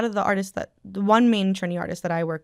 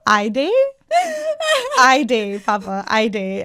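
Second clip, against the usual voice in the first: louder, whiny Guyanese "I day, Papa"; Guyanese accent; 3 semitones higher, 6 dB louder than usual. Retold or imitated. Child answering her dad, whiny Guyanese accent. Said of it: "And I'm like".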